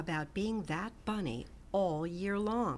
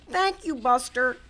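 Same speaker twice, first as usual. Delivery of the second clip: lightly voiced little rabbit, louder; grateful bunny; 5 semitones higher, 7 dB louder than usual. A narrator's reading. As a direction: say thanks brightly. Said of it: "Hoppy said".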